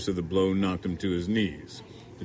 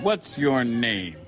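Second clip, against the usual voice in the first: slow, drawn-out questioning; a hint of a menacing redneck; slow demand; 4 semitones higher, much slower than usual. A narrator's reading. Man questions the narrator.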